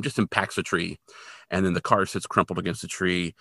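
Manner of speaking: ordinary talk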